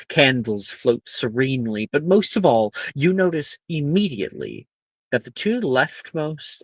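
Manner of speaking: animated, storybook narration; game master scene setting. Acted. Game master describes the Great Hall to players, animated scene setting. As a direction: open big, then carry the description with lively emphasis.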